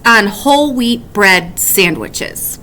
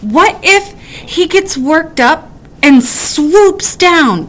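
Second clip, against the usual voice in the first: worried; 2 semitones higher than usual. Acted. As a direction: build panic to the final question. Woodchuck's worried what-ifs.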